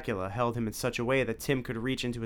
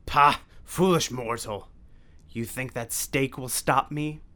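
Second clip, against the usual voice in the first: scornful vampire, slow and louder; Dracula voice; 3 semitones higher, 4 dB louder, slower than usual. A narrator's reading. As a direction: sneer at the puny mortal. Dracula taunting Tim.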